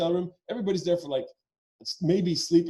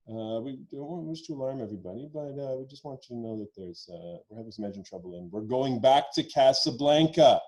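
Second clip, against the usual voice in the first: pilot on intercom; 4 semitones lower than usual. Retold or imitated. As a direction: play the captain downplaying engine trouble. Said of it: "the guy comes on the intercom".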